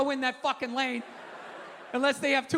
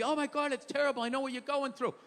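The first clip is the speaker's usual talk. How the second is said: mock empathy; 3 semitones lower, 6 dB quieter than usual. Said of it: "you had empathy".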